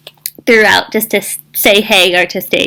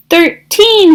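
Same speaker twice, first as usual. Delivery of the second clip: mock yell; 9 semitones higher, 4 dB louder than usual. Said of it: "she yelled".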